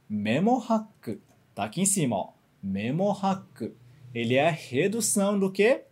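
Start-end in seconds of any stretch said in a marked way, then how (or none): 0.1-1.2 Memohack said slowly, each syllable clear; slow model word. Shown as a demonstration. 2.6-3.7 Memohack said slowly, each syllable clear; slow model word. Shown as a demonstration.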